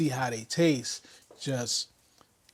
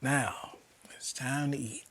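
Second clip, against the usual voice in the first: hushed, softer whisper; 11 dB quieter than usual. Real, not acted. Cook whispers to viewers that it's time to eat, whispered. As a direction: whisper it like a secret before the first bite. Hushed before tasting the wings.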